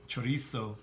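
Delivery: chorizo with a rolled Spanish r; Spanish accent. Shown as a demonstration. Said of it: "say it in a s-, s-, Spanish accent".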